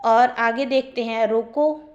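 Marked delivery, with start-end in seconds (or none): 1.3-1.8 "रोको" set apart with a slight rise, then a pause; pause after रोको. Shown as a demonstration. Teacher demonstrating the comma, "रोको" standing alone before a pause. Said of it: "फिर comma है".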